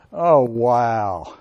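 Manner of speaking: low, drawn-out note of sympathy; sympathetic interjection. Shown as a demonstration. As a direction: let it fall gently to show you feel for them. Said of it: "said it with a tone that said, "I'm sorry for all the studying".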